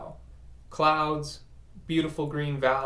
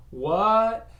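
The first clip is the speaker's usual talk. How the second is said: startled what; 8 semitones higher, 6 dB louder than usual. Retold or imitated. Guru asks for the car.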